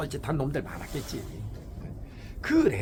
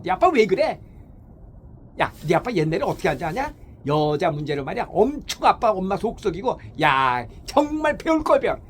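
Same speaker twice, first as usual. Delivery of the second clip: nagging wife; 5 dB louder than usual. Retold or imitated. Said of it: "이런 식으로 자식 앞에서 예를 들어서".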